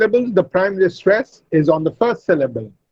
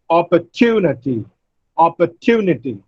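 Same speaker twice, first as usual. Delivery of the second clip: "opportunity" said op-por-TU-nity; stress on third syllable. Shown as a demonstration. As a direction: lean on TU in "opportunity". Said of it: "primary stress on the third syllable".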